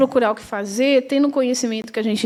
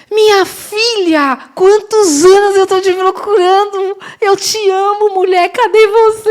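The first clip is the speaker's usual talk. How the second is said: high, louder, thrilled reunion; old friend shouting with joy on the phone; overjoyed friend; 8 semitones higher, 4 dB louder than usual. Retold or imitated. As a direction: gush like a long-lost friend found at last. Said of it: "Aí ela".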